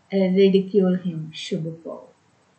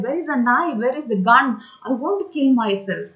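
mild acted panic; a touch of frantic despair; panicked; 2 semitones higher, faster than usual. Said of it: "He became panicked and he said".

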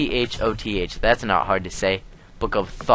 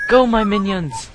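villain command; 12 semitones higher, 7 dB louder than usual. Pretend.

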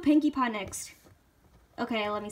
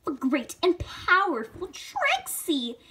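grand, slow boast, lightly voiced; Trixie; slower than usual. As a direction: play a self-important show-off, drawing out the name. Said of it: "ooh, do Trixie. Try Trixie".

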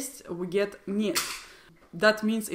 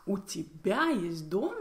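disbelieving question centred on тебя; emphasis on тебя; 3 dB quieter than usual. Shown as a demonstration. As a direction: lean on тебя as if you cannot believe it. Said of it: "I'm emphasizing тебя".

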